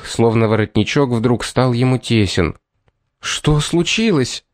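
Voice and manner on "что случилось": higher, drawn-out urgent question, mildly raised voice; understated near-shout, pitched up and stretched out. A narrator's reading. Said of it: "повторила Эмили громко, почти крича".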